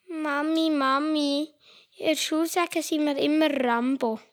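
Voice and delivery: a hint of a complaining little boy; child voice. Boy complaining about school to his mother, a hint of kid voice.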